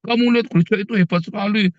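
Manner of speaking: lightly mocking, starry-eyed church booster; mock church bragger. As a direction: parody a fan raving about a pastor's Lamborghini. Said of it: "tiap kali ketemu orang".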